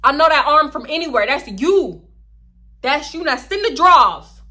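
loud, high, slow confrontation; loud slow threatening demand; heated demand. Retold or imitated. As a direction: slam each line down. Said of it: "And I was like".

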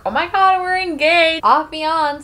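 high, giddy mock announcement; excited squeal. Newly engaged couple sharing their news, giddy.

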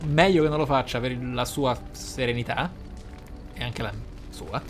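ordinary delivery

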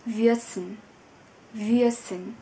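würzen with a rounded ü, said clearly twice; German pronunciation demo. Shown as a demonstration. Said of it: "cách phát âm". (phát âm würzen chuẩn tiếng Đức)

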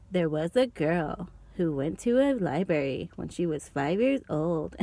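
lightly imitated slow storyteller, slowing to a crawl at the end; a hint of a slow mystery narrator; Dylan Chills impression. Imitating a YouTuber's slow voice to viewers. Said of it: "he talks like this".

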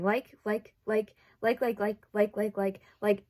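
rapid run of likes, mocking herself; mock filler-word stammer. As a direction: parody her own verbal tic. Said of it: "every other word".

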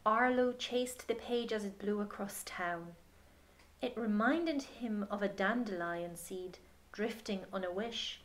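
gentle picture-book reading voice; story narration. Acted. Reading the picture book aloud to a child, gentle storytelling. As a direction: read it to children at bedtime.

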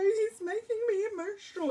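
high and loud, overcome with emotion; mock-teary high-pitched wail; choked-up squeal. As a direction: squeal it out as if tearing up. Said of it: "And go".

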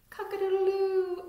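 high, loud rooster crow. Acted. Recaps animal noises.

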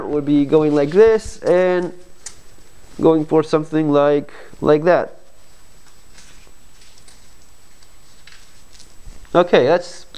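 muffled behind cloth mask; speaking with covered mouth; through a face mask. Real, not acted. Seen 0: Fabric mask covers mouth and nose throughout while fastening the strap.

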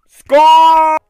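loud high triumphant cheer; excited cheer. Real, not acted. Cheering a game success.

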